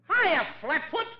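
slow, taunting jeer; cocky insult. Acted. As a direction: drawl it out like a cheeky taunt. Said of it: "Okay, okay".

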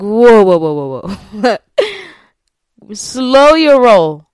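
loud, drawn-out mock protest; retold alarmed protest. Telling boyfriend not to rush her, loud mock alarm. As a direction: put the brakes on loudly, hamming it up.

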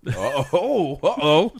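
high, loud laughing uh-oh; mock alarm. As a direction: sing out a playful warning. Mock alarm at rude listeners.

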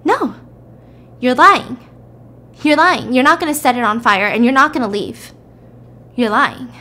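a mock angry standoff; accusing. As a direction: throw the accusation back at him. Wife refuses, accusing husband.

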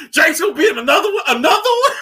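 high-pitched, laughing incredulous question; laughing disbelief. Acted. Friend reacting to yet another appearance, high laughing disbelief. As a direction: pitch climbs sharply in giggling outrage. Mock outrage at another returning character.

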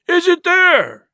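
high, loud, drawn-out roared question. A narrator's reading. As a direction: roar the demand slowly. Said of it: "roared Pugh".

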